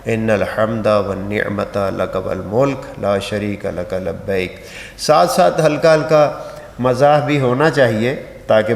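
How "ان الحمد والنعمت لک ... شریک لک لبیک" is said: slow, measured Arabic recitation; correct talbiyah recitation. Shown as a demonstration. Teacher modelling the talbiyah for pilgrims, slow careful recitation. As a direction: recite it slowly and lower, word by word for learners. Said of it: "تاکہ آپ کی زبان کے اوپر یہ صحیح انداز سے آ جائے".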